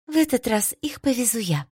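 lofty, stately and proud; regal announcement. A narrator's reading. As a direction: announce it like royalty. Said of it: "величественно уведомила".

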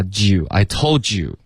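"told you" run together with a ju sound; slow "I told you" with a joo link. Shown as a demonstration. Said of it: "就发ju".

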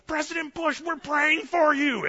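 high, stretched-out shout; loud, drawn-out call over a crowd; desperate crowd yell. Retold or imitated. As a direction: holler it to catch someone's attention. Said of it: "loud enough to get his attention".

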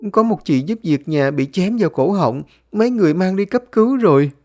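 put-on alarmed high young girl; Liên. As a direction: report the injury in rising panic. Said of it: "Bé Liên hốt hoảng".

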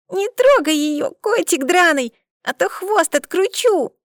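put-on high, loud little girl's threat, slowed; a small girl threatening the cat man; child's bold threat. A narrator's reading. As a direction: threaten him fearlessly like a tiny child.

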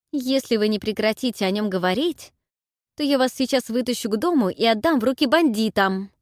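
a threat that builds in volume; threatening. Acted. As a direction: warn him off with a loud threat. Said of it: "пригрозила я".

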